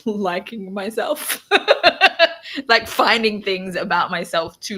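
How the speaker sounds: laughing through the words; embarrassed laugh. Real, not acted. Speaker laughing at admitting he works on liking himself. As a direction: let a self-conscious laugh break in.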